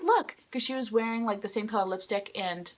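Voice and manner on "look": high-pitched imitated delight; delighted discovery. Singer noticing fan's matching makeup, high delight.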